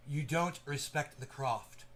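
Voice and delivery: slow, hushed, deliberate take on You don't respect the craft; slow, measured film-line scolding; corrected movie quote. Shown as a demonstration. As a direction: spell the line out carefully, the right way. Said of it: "There, I said it correctly".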